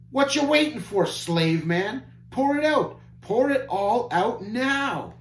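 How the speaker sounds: very high, loud bratty command; crying out. Acted. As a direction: yell at the servant like a greedy brat. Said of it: "cried out".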